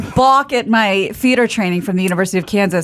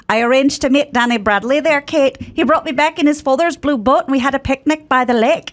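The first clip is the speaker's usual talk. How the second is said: lilting Irish monologue voice; Irish accent; 3 semitones higher than usual. Shown as a demonstration. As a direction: speak it like an Irish girl from Donegal. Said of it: "what would that sound like now".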